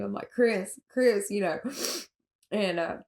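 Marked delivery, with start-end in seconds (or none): 0.3-1.3 a mild retold yell of a name; calling out. Sister calling her brother's name, mildly yelled. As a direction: call his name with half-force urgency. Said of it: "I'm screaming, I'm yelling my brother's name".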